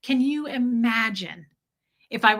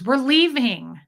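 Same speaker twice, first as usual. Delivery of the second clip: louder, firmer order; husband flatly refusing, louder; firm angry insistence; 4 semitones higher, 6 dB louder, slower than usual. Retold or imitated. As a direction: put your foot down. Fred angrily insisting.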